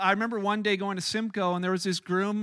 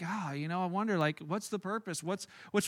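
mock aimless musing; 2 semitones lower, 7 dB quieter than usual. Imagined aimless morning musing.

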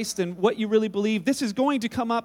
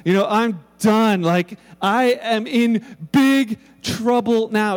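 dread; 3 dB louder, much slower than usual. Retold or imitated. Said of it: "it's like".

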